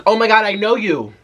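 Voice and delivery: sudden high, loud gasp of recognition; startled as it dawns on you who she is; surprised recognition. Retold or imitated.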